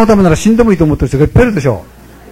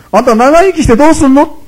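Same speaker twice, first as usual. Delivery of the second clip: blunt question pitched higher; gutsy head priest; 9 semitones higher, 3 dB louder than usual. Retold or imitated. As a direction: challenge him without flinching. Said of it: "腹の据わった住職". (腹の据わった住職の、高めの率直な問いかけ)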